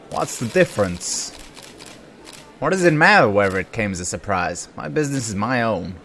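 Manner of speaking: lightly voiced defensive cop; cop's voice. Cop answering the press, a lightly acted cop voice. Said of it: "I'm doing the cop's voice".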